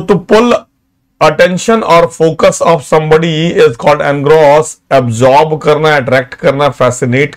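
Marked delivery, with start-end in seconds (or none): 0.0-4.7 very slow, word by word for notes; dictating to students; slow dictation. Shown as a demonstration. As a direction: spell it out slowly so they can write. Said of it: "Jot down all these words".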